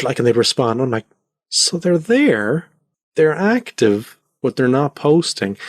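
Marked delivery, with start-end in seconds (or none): 1.5-5.6 high, slow, drawn-out puzzlement; mock working it out aloud, pitched up; puzzled realization. Acting out his puzzled reaction.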